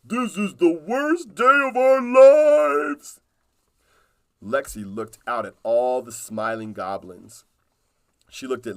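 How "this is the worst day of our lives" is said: high, loud, slow goblin wail. Acted. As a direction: whine it like a goblin on its worst day. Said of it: "Stank Eye and Muckmouth jumped up and down and said".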